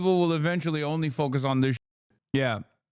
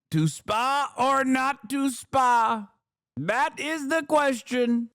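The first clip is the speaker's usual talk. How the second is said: mock Hamlet line; 10 semitones higher, slower than usual. Mock Trump quoting Hamlet.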